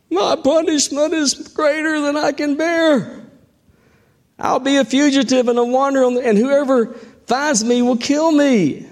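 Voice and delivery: high, fast self-pitying whine; whining Cain. Acted. Preacher voicing Cain's whining complaint. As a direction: whine like a sulky victim. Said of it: "Cain whines".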